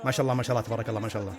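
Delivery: low, soft aside; murmured blessing. Real, not acted. Fan warding off the evil eye, quiet murmur. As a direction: drop to a quiet mumble.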